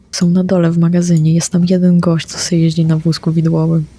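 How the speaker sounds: normal talking voice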